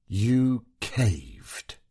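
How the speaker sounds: mocking jab; taunting. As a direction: sneer it at him lightly. Wife taunts husband.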